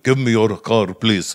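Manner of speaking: loud mock Arab accent; movie-style Arab accent. Stereotypical Arab guy from a movie, mock accent. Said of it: "stereotypical Arab-looking guy".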